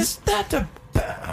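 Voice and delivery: high, drawn-out fake English accent; mumbled English accent. Shown as a demonstration. Practising after his co-host, mumbled English accent. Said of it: "in a mumble fashion".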